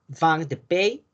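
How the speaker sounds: "vin de pays" said the French way, nasal vin, final s silent; careful French "vin de pays"; French pronunciation. Shown as a demonstration. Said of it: "Les voy a estar siempre marcando esta parte".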